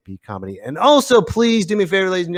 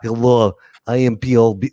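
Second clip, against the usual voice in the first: Russian DJ voice; 2 semitones lower than usual. Pretend. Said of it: "like a Russian dance D J".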